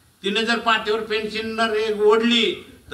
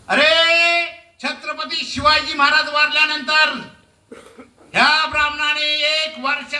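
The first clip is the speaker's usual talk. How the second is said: indignant shout; 7 semitones higher than usual. Real, not acted. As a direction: burst out at the crowd. Angry outburst in rally speech.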